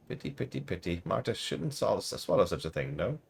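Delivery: put-on high, muttering old seamstress, sing-song; croaky old seamstress. Player asks who she is, old seamstress answers in high mutter. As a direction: play Marta as a batty crone. Voices Marta.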